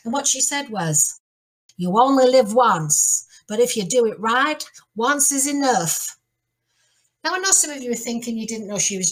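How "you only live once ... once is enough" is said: put-on drawled, slow American Mae West accent. Performing a famous quote for listeners, Mae West accent. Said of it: "do it in a Mae West accent".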